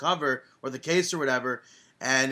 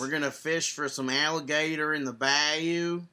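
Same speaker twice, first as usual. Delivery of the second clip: Australian into redneck. Retold or imitated. Host imitating the cohost's Australian-to-redneck accent. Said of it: "Australian and then drifting into, like, redneck territory".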